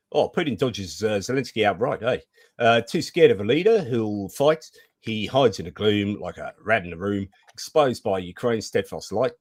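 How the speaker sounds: put-on Kiwi reading; New Zealand accent. Shown as a demonstration. Host rereads a viewer's rhyme in a playful New Zealand accent. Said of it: "in my New Zealand accent".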